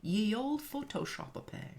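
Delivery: mock Old English flourish; hammed-up olde-timey announcer; renaissance fair olde speech. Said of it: "I'm gonna talk in Old English today".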